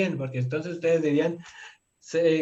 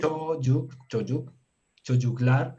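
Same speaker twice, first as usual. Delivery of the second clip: syllable by syllable; slower than usual. Shown as a demonstration. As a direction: build up çocuklar in separate chunks. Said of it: "leanla sílaba por sílaba". (leyendo sílaba por sílaba)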